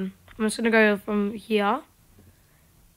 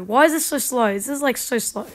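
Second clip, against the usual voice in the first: ordinary delivery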